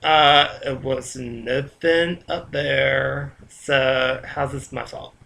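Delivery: mildly baffled, stretching the words out; puzzled protest. Acted. Dreamer answering an angry ghost, slow and lightly puzzled.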